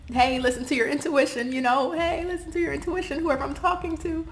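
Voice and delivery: emotional plea, pitch climbing; pleading. Real, not acted. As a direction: coax them gently, voice lifting. Pleading advice to viewer.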